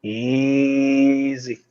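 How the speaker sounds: drawn-out, soothing "easy"; calming. Acted. Guards holding spears at a wolf, calming. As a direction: coax a wary animal down slowly.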